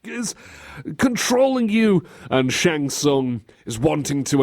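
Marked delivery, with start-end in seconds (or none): 0.0-2.0 high, pleading hero; mock desperate plea; Liu Kang. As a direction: beg for your life, hammed up. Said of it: "Trying to convince Raiden".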